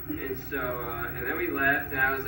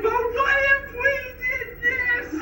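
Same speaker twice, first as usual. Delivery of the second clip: much higher, mock feminine customer-service voice; woman-like guy; 5 dB louder, slower than usual. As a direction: squeak it up like the agent he took for a woman. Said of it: "this guy who I thought was a woman".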